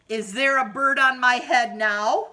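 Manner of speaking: loud rising anxious question; worried elephant. Acted. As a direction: plead for an answer. Elephant asks again, worried.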